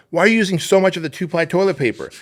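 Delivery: high, loud mock outrage; hammed-up husband's rant; retold yelling. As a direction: berate the wife in mock disbelief. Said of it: "yells at his wife".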